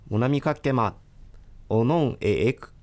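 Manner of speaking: learner trying out Ainu phrases boldly and loudly; loud practice attempt. Real, not acted. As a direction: call the phrases out with confidence. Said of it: "練習してもいいですか？". (練習でアイヌ語を大きな声で言ってみる)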